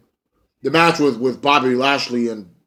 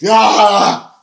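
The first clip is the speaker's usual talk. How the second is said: higher, louder sarcastic yay; mock cheer; 8 semitones higher, 6 dB louder than usual. Vlogger mocking the steal of the pinfall, sarcastic cheer. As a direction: fake celebration of the win.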